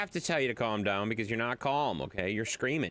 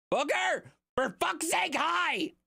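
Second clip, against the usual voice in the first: high pet voice; much slower than usual. Real, not acted. Greeting the dog on screen.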